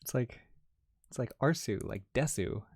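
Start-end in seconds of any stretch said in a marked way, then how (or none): 1.1-2.6 a hint of an anime weeb accent, teasing "Arsu" to rhyme with "Desu"; mock weeb accent. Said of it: "in a weeb accent".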